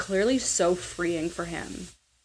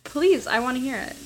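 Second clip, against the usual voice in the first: higher, insistent begging; pleading; 6 semitones higher than usual. Real, not acted. Host begs her co-host to do the baby cry, pleading. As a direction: push hard for the impression with a plea. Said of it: "No, I wa-, I".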